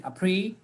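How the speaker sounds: "Appre-" alone, ending on a rise; word cut in two. Shown as a demonstration. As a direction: stop short after "Appre-", lifting it. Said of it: "So we cut it in two".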